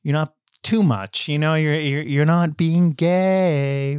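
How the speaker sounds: fake-nice compliment with a sting; mock polite. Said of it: "polite compliment saying".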